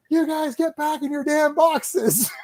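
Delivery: high, slow imitated scolding; mock mad. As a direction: order them back, hammed-up exasperation. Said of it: "She's so mad".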